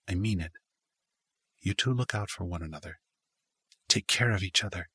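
grave and sincere; serious. Acted. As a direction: drop into a serious, earnest tone. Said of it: "Her voice took on a more serious tone".

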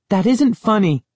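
high, loud frightened reproach; upset scolding. A narrator's reading. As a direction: scold him, scared and cross. Frightened girl scolds Gabe.

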